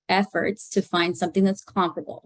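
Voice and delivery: mild emphasis on comparable; stress on comparable. Shown as a demonstration. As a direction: lean on the word comparable. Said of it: "I'm putting the emphasis on the word comparable".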